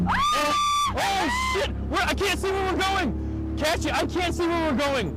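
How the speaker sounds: sledding downhill. Real, not acted. Riding a fast speedboat screaming.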